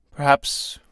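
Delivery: put-on old man whispering an ominous answer; whispered. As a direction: breathe it out as a dark hint. Grave hint of world's end.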